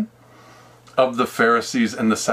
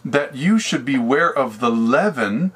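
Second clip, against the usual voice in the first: solemn scripture voice. Acted. Jesus explains in scripture words.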